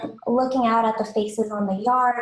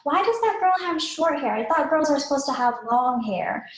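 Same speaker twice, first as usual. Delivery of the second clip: put-on curious young child; 4 semitones higher than usual. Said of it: "when they're really young".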